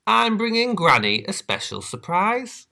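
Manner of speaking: put-on high, bright girl voice; proud little girl. Little Red voice.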